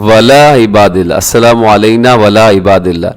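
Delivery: वला run together with the ayn swallowed; quick, careless वला इबादिल्ला; wrong pronunciation. Shown as a demonstration. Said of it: "वला नहीं बल्कि व अला".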